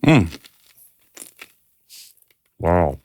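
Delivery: chewing while talking; crunching chips. Real, not acted. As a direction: mouth full of crunch. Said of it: "Sorry for the crunching".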